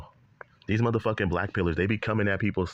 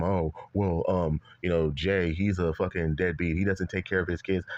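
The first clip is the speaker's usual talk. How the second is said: mocking imitation; 3 semitones lower than usual. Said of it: "talking about some".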